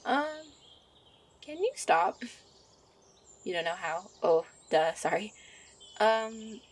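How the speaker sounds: a gentle witch fussing over her sweetheart; a hint of a bubbly witch girlfriend; young witch character.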